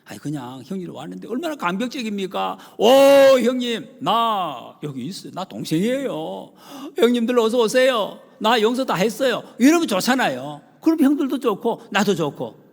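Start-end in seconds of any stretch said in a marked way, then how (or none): 2.8-9.4 high, loud, glad calling out; joyful welcome. Retold or imitated. Joseph greeting his brothers, high glad calling out.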